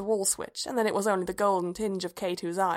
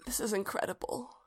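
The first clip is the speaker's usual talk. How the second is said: thick voice; 2 semitones higher, 8 dB quieter than usual. A narrator's reading. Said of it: "His voice was thick".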